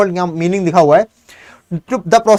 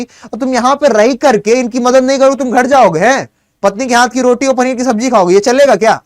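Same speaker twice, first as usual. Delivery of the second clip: higher, reproachful challenge; mock scolding Gandhi; 4 semitones higher than usual. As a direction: chide the lawyers with disbelief.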